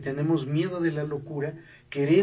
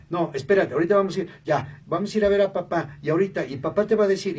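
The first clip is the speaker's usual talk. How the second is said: put-on louder, hurried coaxing of a crying baby; frazzled mother soothing baby; 3 semitones higher, 5 dB louder, faster than usual. Mother hurriedly hushing her ten-month-old baby, louder and fast. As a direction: rush to calm a baby who will not stop. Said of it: "un bebé de diez meses".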